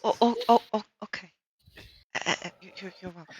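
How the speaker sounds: awkward, halting little stutter; flustered stammer. Acted. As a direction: stumble over each word, trailing away softly. Awkward reply after flirty farewell.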